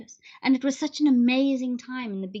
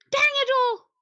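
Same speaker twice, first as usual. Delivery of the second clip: high, loud mock curse; hammed-up annoyance; high playful dang it all; mock frustration; 5 dB louder than usual. Pressed the wrong filter.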